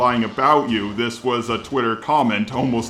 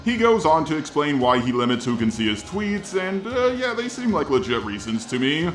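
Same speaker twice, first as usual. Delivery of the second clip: robot voice. Shown as a demonstration. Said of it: "doing this response in the robot voice".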